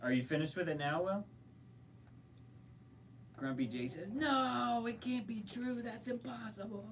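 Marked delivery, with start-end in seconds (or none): 4.1-6.8 Mark Hamill voice. Acted. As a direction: wail it like a disbelieving film hero. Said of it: "The Mark Hamill voice".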